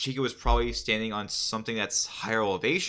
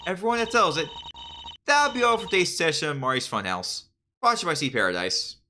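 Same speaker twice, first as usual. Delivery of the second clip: bright, higher host voice; upbeat host wrapping up the show; game show host voice; 4 semitones higher, faster than usual. Acted. Game host character signing off.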